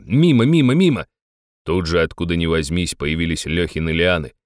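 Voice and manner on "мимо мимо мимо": rising frustration. A narrator's reading. Repeated misses rising in frustration.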